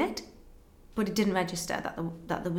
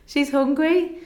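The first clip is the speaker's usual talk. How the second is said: higher and louder, heartfelt; emphatic repeat; 8 semitones higher, 7 dB louder, slower than usual. Real, not acted. Mother stressing to the interviewer that her baby was starving, emphatic. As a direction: press it home with feeling.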